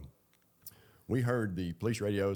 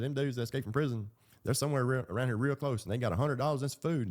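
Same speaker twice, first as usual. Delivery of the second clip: imitating a kid yelling it out, higher; loud kid; 6 semitones higher than usual. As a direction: retell a kid hollering the news. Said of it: "he's loud as hell".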